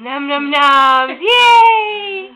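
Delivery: put-on baby talk. Mother cooing at baby.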